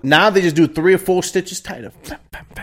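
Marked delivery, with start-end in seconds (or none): 2.1-2.6 soft quick bam-bam-bam; quiet percussive mouth noise; imitated stitching sound. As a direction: punctuate the stitches with hushed sound effects.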